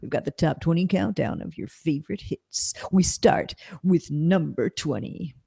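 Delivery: lightly voiced cheesy radio DJ; hint of a smooth radio host intro. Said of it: "That sounds like a fake radio D J's name".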